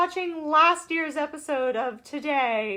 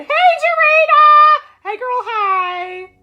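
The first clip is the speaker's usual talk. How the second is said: higher, louder slow singsong call; excited greeting; 9 semitones higher, 10 dB louder, slower than usual. Real, not acted. Host greeting Dorita in the chat, slow and singsong. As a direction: stretch the hello out joyfully.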